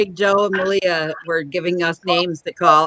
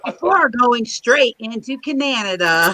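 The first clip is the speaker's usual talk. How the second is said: news traffic report. Retold or imitated. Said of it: "sounds like you do the news".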